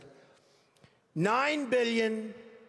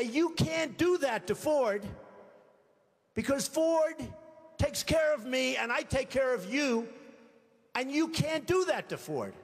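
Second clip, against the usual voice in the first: pushy lobbyist; 5 semitones higher than usual. Retold or imitated. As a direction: lean on him like a lobbyist protecting his donor. Lobbyist pressuring a politician.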